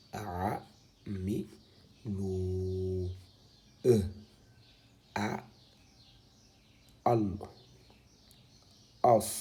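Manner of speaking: syllabes détachées une à une, posées lentement; épeler chaque syllabe bien séparée; lecture syllabée. Shown as a demonstration. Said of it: "Alors, ça se lit pareil". (lecture lettre par lettre)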